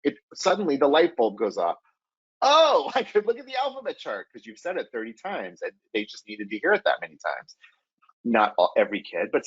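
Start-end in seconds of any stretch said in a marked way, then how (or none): 2.4-4.3 high, delighted aha with a laugh; the penny drops, say it bright with discovery; lightly voiced child's eureka; sudden realisation. Shown as a demonstration. Kid's light-bulb moment.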